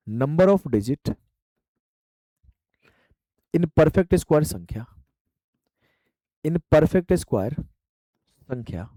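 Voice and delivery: each word stretched apart for note-taking; extra slow dictation. Shown as a demonstration. Teacher repeating the term for students, extremely slow. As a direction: drag "number of digit" out, pausing between words. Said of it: "teacher dictating the phrase slowly".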